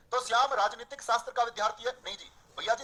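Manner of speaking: ordinary talk, nothing marked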